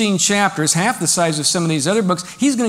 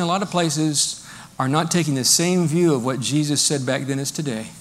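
usual speaking voice

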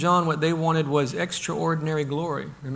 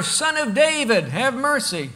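raised, high pleading call; retold yelling; 7 semitones higher, 3 dB louder than usual. Two blind men calling to Jesus, retold yell. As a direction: call out for mercy, easing off at the end. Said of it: "they are yelling even louder".

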